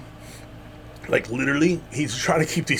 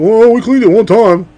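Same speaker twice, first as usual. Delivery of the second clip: mock coworker; 9 semitones higher, 10 dB louder than usual. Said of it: "he's like".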